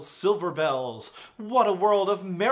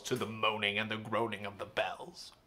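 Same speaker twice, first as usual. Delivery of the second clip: solemn poem recital. Acted. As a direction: toll it like a funeral bell. Recites the tolling-bells stanza.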